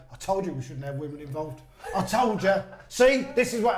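a jokey Cockney take on the manager's grumble; lightly put-on Cockney, told-you-so; mock Cockney accent. Manager imagined moaning about women staff, in light Cockney. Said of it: "obviously he's not saying the Cockney accent".

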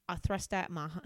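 Australian sliding into cockney; cockney slip. Acted. Narrator describing the handshake, in an accidental cockney accent. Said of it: "I've become too much of a cockney".

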